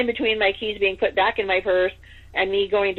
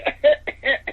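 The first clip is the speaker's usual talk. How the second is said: mock cough, pitched up; imitated coughing; 6 semitones higher than usual. Husband describing coughing on the other end, mock cough. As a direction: fake a little coughing fit. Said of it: "all I heard was coughing".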